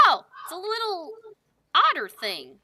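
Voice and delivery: light, amazed cooing; delighted surprise. Acted. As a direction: gasp at the cute critter. Sunny finds an otter.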